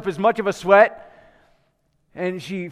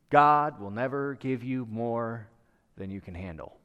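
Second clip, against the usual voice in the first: reciting a mantra; 7 semitones lower, 6 dB quieter than usual. Retold or imitated. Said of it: "we repeat our mantra".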